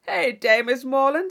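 put-on loud, brash young buck calling out; blustering John Thorpe. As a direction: bark her name across the room. John Thorpe accosting Catherine.

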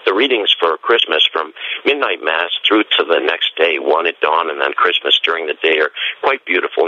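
hoarse, scratchy throat. Real, not acted. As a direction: talk through a scratchy voice. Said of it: "my scratchy voice".

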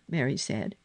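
usual speaking voice

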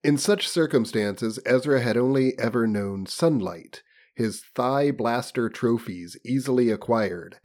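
lofty reading, slowing toward the end; hammed-up literary audiobook voice; story narration. A narrator's reading. Reads novel aloud.

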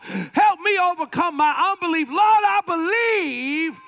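building prayer. Acted. Preacher leading the congregation in prayer, building to a cry.

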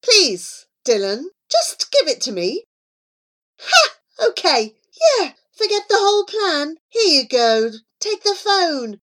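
lightly acted gloating bully; triumphant taunt. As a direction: crow over a beaten rival, voice lifting. Villain gloats over his victory.

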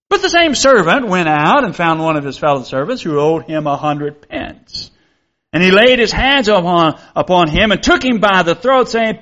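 measured reading of scripture to the congregation. Acted. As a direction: read the Bible passage aloud with solemn care.

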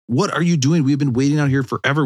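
mock impatient parent's complaint; exasperated parent. Dad to daughter late from the locker room, exasperated.

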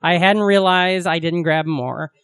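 slow, projected read-aloud of a letter. Real, not acted. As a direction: read the letter out slowly to its sign-off. Resumes reading the letter.

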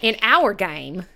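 very slow mock Southern drawl; terrible Southern accent. Host introducing the game, drawn-out mock Southern accent. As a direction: stretch it out in a bad Southern accent. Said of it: "do a terrible Southern accent".

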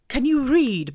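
high, loud owl voice, a touch worried; anxious Owl. Acted. Owl hiding he can't spell, anxious owl voice. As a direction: ask nervously in a hooting voice. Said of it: "he asked a little anxiously".

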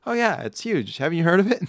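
put-on high, loud old lady chatter; grandma. Grandma touting Bitcoin to her grandson, high grandma voice. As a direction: play an enthusiastic grandma in a high voice. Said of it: "Grandma, wh-, how'd you spend your weekend?".

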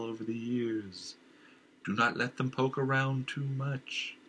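the dark voice in his head scolding; uncanny nagging voice; sinister inner voice. Acted. Inner voice warns king.

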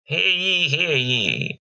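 high town crier call; mock royal decree. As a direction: proclaim it like a herald. Goblin crying out wares.

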